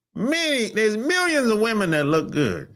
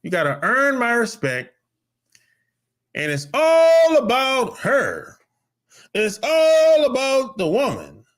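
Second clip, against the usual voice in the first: mocking woman's voice; 7 semitones higher, 5 dB louder than usual. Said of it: "phrases I hear a lot".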